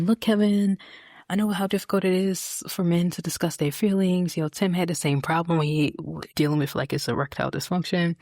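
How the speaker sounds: loud, earnest Sally quote; hammed-up blunt honesty; quoting Sally. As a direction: lay it on like a frank, well-meaning friend. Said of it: "Sally is just like".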